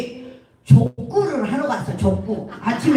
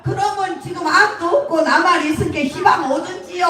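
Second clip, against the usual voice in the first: Jeolla granny; 5 semitones higher than usual. Acted. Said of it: "전라도 말이 나오지".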